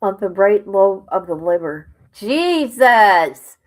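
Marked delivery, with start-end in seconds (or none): 2.1-3.6 shocked exclamation. Real, not acted. Shocked by autopsy detail.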